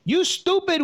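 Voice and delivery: a high mock yell of an insult; shrill-pitched jab, imitating the girlfriend's yell; retold yelling. Girlfriend yelling an insult at him, high mock yell. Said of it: "She starts yelling".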